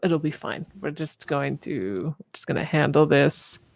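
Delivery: lightly voiced composed reassurance; Viola. Game master as a character calming the party, drawn-out mild composure. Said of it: "she turns to you guys and she goes".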